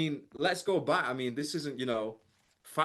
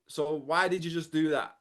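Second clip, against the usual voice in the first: scolding parent; 3 semitones higher than usual. Retold or imitated. Parent tells child off.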